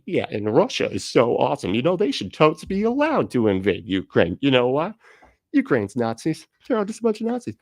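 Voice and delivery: mocking right-wing pundit.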